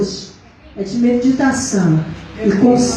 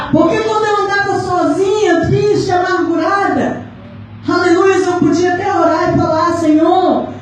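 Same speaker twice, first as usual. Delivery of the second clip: preaching testimony; 5 semitones higher than usual. Real, not acted. Recalling to the church walking alone and sad, preaching. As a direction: testify in a raised, sustained preaching pitch.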